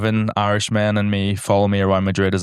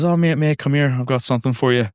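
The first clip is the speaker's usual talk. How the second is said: mock friendly call; 5 semitones higher than usual. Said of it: "he goes".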